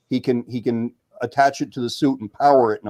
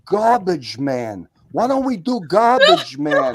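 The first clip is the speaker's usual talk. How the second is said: drawn-out, slow reveal rising much higher; excited buddy; 7 semitones higher, slower than usual. Retold or imitated. Buddy proudly proposes Garbage Man as a superhero name, excited. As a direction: imitate a friend grandly unveiling his idea. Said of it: "He says".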